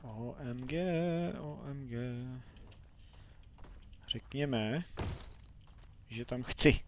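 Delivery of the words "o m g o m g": drawn-out, very slow letters; stunned, slowly spelled-out OMG; slow amazement. Real, not acted. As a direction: savour the shock letter by letter. Astonished at what he sees.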